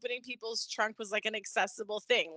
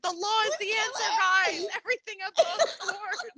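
higher, laugh-cracked mock earnest plea; laughing imitation; 8 semitones higher, 4 dB louder than usual. Mimicking Alexis by the car, laughing through it. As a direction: play it earnest but break up laughing. Voicing Alexis crouched calling 911.

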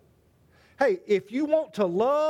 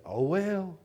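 soft oh well; 4 dB quieter than usual. Shown as a demonstration. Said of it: "you look and say".

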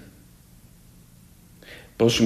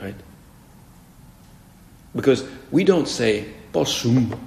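ordinary talk, nothing marked

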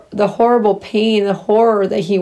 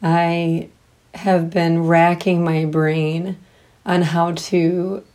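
shaky crying voice; 4 dB quieter than usual. Real, not acted. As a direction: voice shaking with held-back tears. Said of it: "I'm sorry if my voice is shaking".

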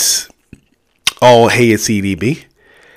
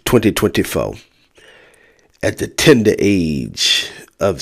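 slow, solemn funeral address; faltering tender eulogy; slower than usual. Acted. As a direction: deliver it like a pastor at a memorial.

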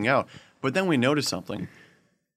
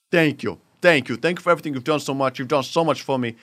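put-on gushing thanks in a light New York accent; imitated customer with a rough New York accent; 2 semitones higher than usual. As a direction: lay on grateful praise, New York style. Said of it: "I'm saying that sort of a New York accent".

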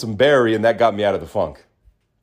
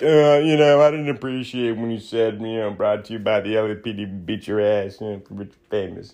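mock complainer. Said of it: "any people being like".

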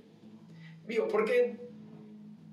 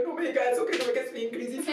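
laughing, higher mock protest; laughing retort to the doctor; 4 semitones higher than usual. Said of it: "y yo".

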